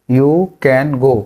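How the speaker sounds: dragged out slowly. Shown as a demonstration. Teacher drills the phrase very slowly. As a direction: stretch every word. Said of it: "तुम जा सकते हो".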